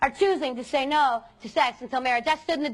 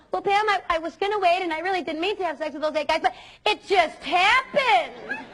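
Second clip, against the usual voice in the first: put-on excuse-making girl; 3 semitones higher than usual. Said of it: "they'll come up to me and they'll go".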